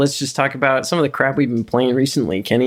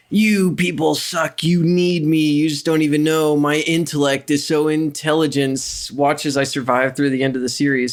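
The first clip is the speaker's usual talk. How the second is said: mock Tyrion Lannister. Mocking Tyrion to cohost, lightly smug voice. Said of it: "that scene from Game of Thrones where he's like".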